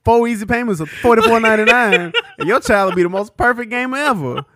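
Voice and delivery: laughing infomercial pitch; home shopping host. Acted. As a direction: sell it like a TV host. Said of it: "We gotta do a skit".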